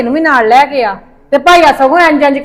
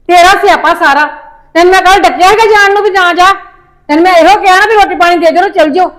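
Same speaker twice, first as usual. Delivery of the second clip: angry scolding; 4 semitones higher, 3 dB louder than usual. Acted. Mother scolds during family quarrel.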